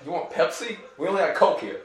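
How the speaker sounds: high Brooklyn pizza guy; Brooklyn accent. Pretend. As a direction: sell it like a Brooklyn counterman. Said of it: "We do a Brooklyn accent".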